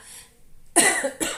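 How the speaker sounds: sudden choking cough fit. Real, not acted. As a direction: cough hard as if choking on a drink. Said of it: "Me engasguei, gente".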